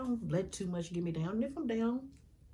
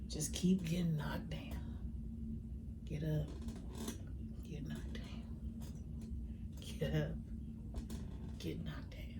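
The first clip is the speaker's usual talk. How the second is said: whispered, worn-down refrain; weary whisper; 2 semitones lower, 4 dB quieter than usual. Real, not acted. Describing being knocked down again and again, whispering. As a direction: breathe it out like you've been hit again.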